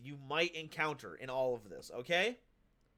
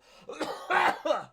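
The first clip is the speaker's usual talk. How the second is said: put-on old man cough; 13 semitones higher, 6 dB louder than usual. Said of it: "my old man voice".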